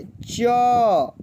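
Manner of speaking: "च" said slowly with a full अ sound after it. Shown as a demonstration. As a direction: draw "च" out into a clear अ vowel. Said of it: "अ का मात्रा अगर हम लोग जोड़ देते हैं". ("च" पूरा, अ के साथ)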